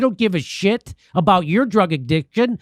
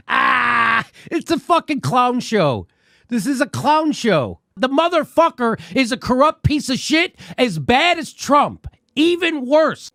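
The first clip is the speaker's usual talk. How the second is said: angry rant; 4 semitones higher than usual. Real, not acted. Ranting at politicians, shouting.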